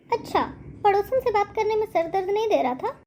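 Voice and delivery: high, fast mocking jab; sarcastic taunt. Daughter-in-law mocks her mother-in-law's headache, high and fast.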